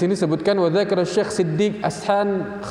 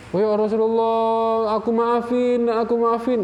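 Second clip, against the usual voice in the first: the master's higher, slower, awed reply, a different voice; master forgiving; 6 semitones higher than usual. Retold or imitated. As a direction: play the humbled master forgiving eagerly. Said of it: "kata yang majikan tadi". (suara majikan yang tersentuh, lebih tinggi dan pelan)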